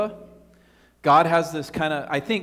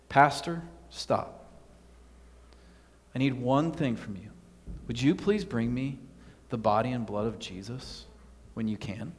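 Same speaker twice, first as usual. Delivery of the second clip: softly and calmly, the last words hushed; steady and unhurried, asking a quiet favour; calm, gentle plea; 4 semitones lower, 5 dB quieter than usual. Retold or imitated. Congregant calmly stopping the worried pastor, soft and calm. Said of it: "and said very calmly".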